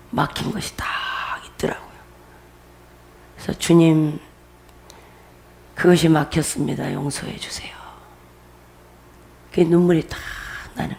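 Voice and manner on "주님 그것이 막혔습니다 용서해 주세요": low retold prayer, fading softly; hushed confession. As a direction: lower your voice into a humble plea, trailing to near whisper. Retells a confession prayed to the Lord.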